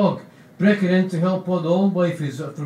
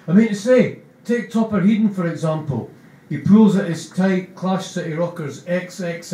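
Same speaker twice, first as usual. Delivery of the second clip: Keithbo enthusing; 3 semitones higher than usual. Acted. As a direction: gush about the drummer. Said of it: "Keysbo says".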